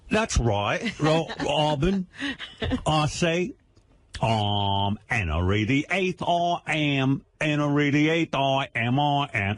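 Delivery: slow, drawn-out mock Cockney; British accent. Shown as a demonstration. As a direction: stretch the words in broad Cockney. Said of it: "It's fun to play British".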